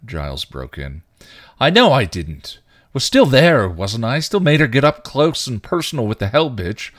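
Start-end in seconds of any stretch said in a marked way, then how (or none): 1.6-6.9 high, loud anguished yelling; yelled. A narrator's reading. Spike yelling at Giles about his failures, anguished shout. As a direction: scream the guilt out at him. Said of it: "he yelled".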